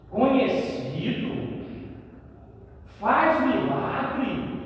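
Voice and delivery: lightly voiced scoffing crowd, slow; drawn-out mock outrage at the guest; scornful gossip. Townspeople sneer at Jesus visiting Zacchaeus, slow scorn. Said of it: "As pessoas começam a falar mal de Jesus".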